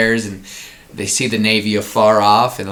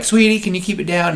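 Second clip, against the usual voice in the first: hushing mom; 9 semitones higher, faster than usual. Pretend.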